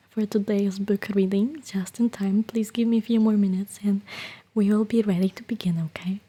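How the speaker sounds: whispering to viewers before book reading; ASMR whisper. Acted. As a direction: hush it like a bedtime story.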